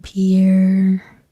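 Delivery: ordinary talk, nothing marked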